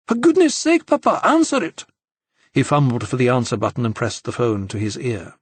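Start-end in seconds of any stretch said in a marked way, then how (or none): 0.1-1.9 high, urgent and a little louder; urgent high plea. A narrator's reading. Daughter urging her father to answer the ringing phone, high and urgent. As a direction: push him to answer, panicked. Sophie urges while the phone rings.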